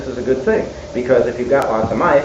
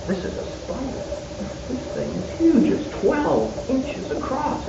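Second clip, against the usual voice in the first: high-pitched, breathy alarm; acted alarm; 12 semitones higher, 4 dB quieter than usual. Teller reliving finding a giant spider, alarmed. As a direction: replay the shock of finding it, high and strained. Finds huge spider in papers.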